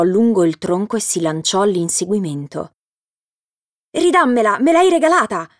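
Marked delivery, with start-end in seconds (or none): 3.9-5.5 loud, high shout chasing her; shouting after her. A narrator's reading. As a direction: yell after a thief running off. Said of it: "le urlò dietro". (urlando dietro a Merlina che scappa)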